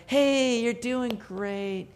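a light hint of a soft, slow cheerleader; mock cheerleader. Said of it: "kinda like a cheerleader".

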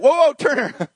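correcting call; sharp warning. Retold or imitated. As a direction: stop him short. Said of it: "God's like".

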